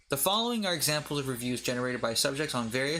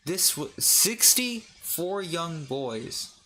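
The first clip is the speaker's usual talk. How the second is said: slow, stunned read; disbelieving; 4 semitones higher, much slower than usual. Real, not acted. Shocked reading of review.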